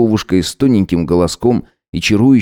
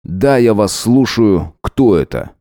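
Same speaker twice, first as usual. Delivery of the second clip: cold; slower than usual. Acted. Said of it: "резануло ухо холодное, как гранит".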